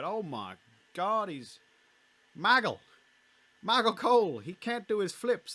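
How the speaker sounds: high, loud commentator's yell; JBL impression. Commentator shouting to his partner about the flips, alarmed. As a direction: cry out in alarm, drawing out the last words. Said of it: "That's my J B L impression".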